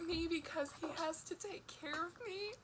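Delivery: tearful, voice wobbling with fear; blubbering. Real, not acted. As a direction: cry through the words.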